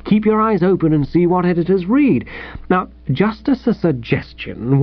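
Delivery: mildly paternal, lilting encouragement; kindly. Acted. Editor advises a rejected old pal, kindly. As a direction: let him down kindly, then cheer him on. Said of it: "he said kindly".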